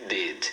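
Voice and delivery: DID ending on a firm tongue stop; pressed final D. Shown as a demonstration. Teacher explains tongue position, correct pronunciation. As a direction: say "did" pressing tongue near upper teeth. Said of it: "pressiona com uma certa força".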